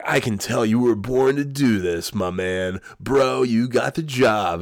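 butter up the new recruit, stretching it out; smug grin. Retold or imitated. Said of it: "big fucking asshole smile on his face".

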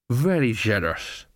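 lightly slurred tipsy thanks; drunken coachman. Acted. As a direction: slur it a little, like a drinker.

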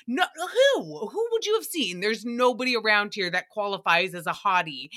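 imitating pure disbelief; imitated disbelief. Imitating Nicole scoffing at claims of office hotties, incredulous. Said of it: "the pure disbelief in her voice".

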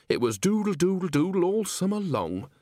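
high, lilting reminiscence; dreamy reverie. A narrator's reading. Nanny reminisces about a long summer, dreamy and high. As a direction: lose yourself in a fond memory. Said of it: "She awoke from her reverie".

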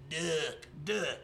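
two punched, separate knock sounds; imitated monster knock. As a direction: mimic the creature's knock, one beat at a time. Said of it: "and I went".

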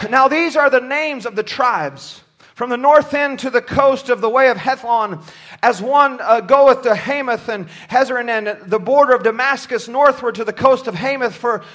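measured, formal Bible reading from the pulpit; steady recitation of verses; scripture reading. Acted. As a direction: read the list of tribes aloud, phrase by phrase. Reads scripture aloud.

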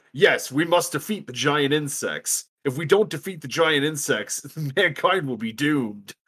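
stiff, hammed-up general; stilted old movie melodrama. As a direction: deliver it like a corny old war film. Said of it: "a general come on over the radio, is like".

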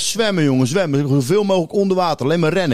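retold frantic cry to swim for it; a panicky shout to swim; urgent call to swim. Urging friends to swim away.

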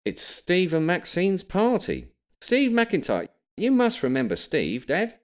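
high, slow, showy dad voice; proud announcement. A narrator's reading. Dad announcing the rare party invite to Grampy, high and showy. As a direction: announce the party grandly, drawn out. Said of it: "with a pause for maximum effect".

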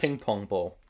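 words round a sour sweet; eating sour candy. Real, not acted. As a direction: talk with candy in the mouth. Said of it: "put it back in your mouth".

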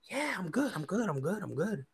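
soft, repetitive nervous reassurance; mad nervous. Retold or imitated. Nervous boyfriend insisting he is fine, mad nervous. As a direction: quietly imitate a jittery "I'm good", starting high and sinking. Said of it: "acting mad nervous".

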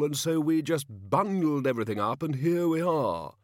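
high, loud, rollicking kingly bluster; hearty king. A narrator's reading. King recounting his charitable outing, hearty. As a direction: tell it like a self-pleased monarch. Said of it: "said the king heartily".

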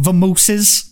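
mock old-movie New York patter; Tallulah. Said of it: "she gets it all in there".

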